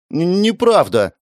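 high, stammering, slow denial; stammering flustered protest. Acted. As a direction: stumble over it, caught out.

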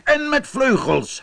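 high-pitched insistent interjection; owl calling out. A narrator's reading. Owl demands wings for the human, calling out high. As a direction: pipe up high over the others. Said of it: "riep de uil".

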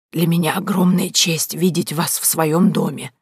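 slow, flustered frail voice; humbly honoured old lady; frail old woman. A narrator's reading. Old woman greeting the duchess, flustered and frail.

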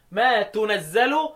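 slow تنزل as "tunazzalu"; rounded "tu" starting تنزل, drawn out; damma on تنزل. Shown as a demonstration. Teacher lists the second reading, slow tunazzalu for تنزل. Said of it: "يبقى أنا عندي قراءة".

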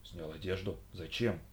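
stunned and unsure; taken aback. Acted. Хью ошарашен приказом Лиши, тихо и растерянно. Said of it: "оторопел Хью".

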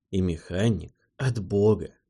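ordinary delivery, nothing marked

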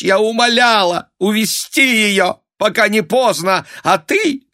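high, loud complaining mother; a countess lamenting her son's ruin; reproachful lament. A narrator's reading. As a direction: plead and blame at once.

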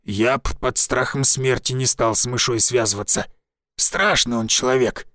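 lightly voiced old village forester; a folksy old woodsman, a touch rough.

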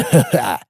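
short hearty laugh; loud guffaw. Acted. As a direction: let out a quick loud laugh. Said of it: "заржал Лёха".

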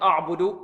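أعبد opened on a dark, heavy a; thickened hamza. Shown as a demonstration. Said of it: "ربما يفخم الهمزة هنا".

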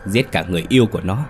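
a hint of a scorned wife's rage; mock furious rant. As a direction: spit the insults at him. Lan turns on Sĩ furiously.

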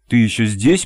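usual speaking voice

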